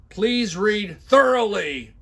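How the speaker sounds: loud, high and very slow; pompous mocking read; mock all-caps shouting. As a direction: shout it out word by word. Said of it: "when I put heavy accents and shout".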